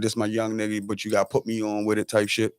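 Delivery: ordinary talk, nothing marked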